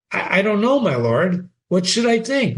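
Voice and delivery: stammer, lost for an answer; unsure daughter. Acted. Ophelia asking her father what to think, unsure girl.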